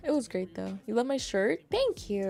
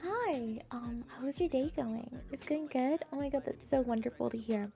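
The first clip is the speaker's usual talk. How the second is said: friendly wing woman; 2 semitones higher, 6 dB quieter than usual. Acted.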